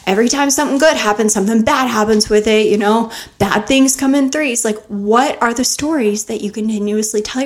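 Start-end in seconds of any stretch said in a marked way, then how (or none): 0.0-4.6 louder, whiny complaining rant in a rush; hammed-up self-pity outburst, fast and loud; mock tantrum. Host acts out a listener's tantrum over bad luck, whiny and loud. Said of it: "throwing a tantrum and saying".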